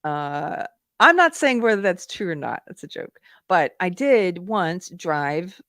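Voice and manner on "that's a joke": breathy whispered joke aside. Real, not acted. Joking aside after women drivers.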